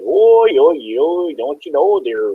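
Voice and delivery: put-on a goofy Midwestern accent from his early YouTube videos. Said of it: "tried to do, like, this, uh, uh, Midwestern accent".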